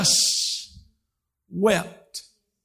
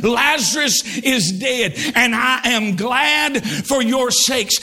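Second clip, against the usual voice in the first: slow, deliberate "Lazarus is dead"; slow quote; slower than usual. Shown as a demonstration. Preacher quoting Jesus to congregation: slow solemn read. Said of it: "And now Jesus says".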